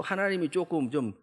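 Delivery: high, indignant appeal for God to act; exasperated plea. Retold or imitated. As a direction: whine it up at God, half-complaining. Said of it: "이런 거예요".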